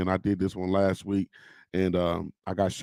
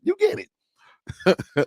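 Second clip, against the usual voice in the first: "You get it" stretched out very slow and high, then falling; slow high sing-song with "get" drawn down; 13 semitones higher, 3 dB louder, much slower than usual. Pretend. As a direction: drag every word of "You get it" out slowly. Playful sing-song to viewers.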